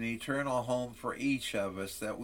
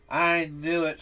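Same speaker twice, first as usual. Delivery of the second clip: sneering; 3 semitones higher, 3 dB louder than usual. Acted. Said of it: "sneered the boy".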